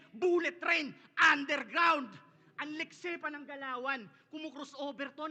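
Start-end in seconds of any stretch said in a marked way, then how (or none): 0.1-2.1 building shout. Acted. Rapper builds punchline hype.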